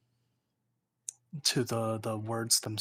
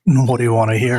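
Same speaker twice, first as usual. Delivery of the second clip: booming, much louder voice blasting the mic; way too loud; 16 dB louder than usual. Real, not acted. Friend on Discord blasting the streamer's ears, booming loud. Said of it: "God, you're so loud".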